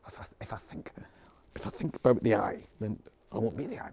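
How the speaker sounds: hushed whisper of a tangled thought; whispered rumination. Retold or imitated. Teacher imitating the ruminating mind type, whispered. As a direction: whisper it like a mind chasing itself.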